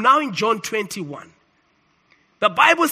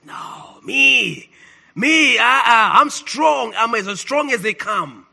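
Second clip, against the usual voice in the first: mildly boastful protest, stretched words; cocky boast; slower than usual. Retold or imitated. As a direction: brush off the warning with confidence. Acts Peter's boast to Jesus.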